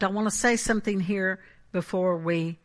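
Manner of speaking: usual speaking voice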